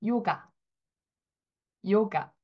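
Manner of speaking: 요가 read the French way; 요가 as a demo word; French yoga. Shown as a demonstration. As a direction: model 요가 clearly. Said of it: "같이 한번 해볼게요".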